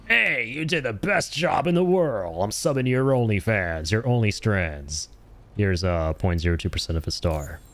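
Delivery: a hint of an overly thankful game character; mocking game characters. Streamer mocking the game's grateful characters, lightly hammed-up. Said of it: "all the characters in this game are like".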